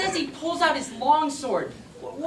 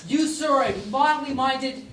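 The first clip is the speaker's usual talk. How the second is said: indignant mock-Elizabethan abuse; theatrical insult. Shakespeare insulting his roommate Marlowe, indignant and theatrical. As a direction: deliver each insult with ceremony.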